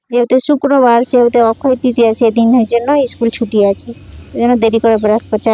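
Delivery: talking with a toothbrush in mouth; while brushing teeth. Real, not acted. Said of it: "আর আমি এখন brush করছি".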